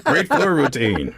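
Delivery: high, drawn-out cheer; mock fan cheer. Sports fan joking about cheering any gymnastics, mock cheer.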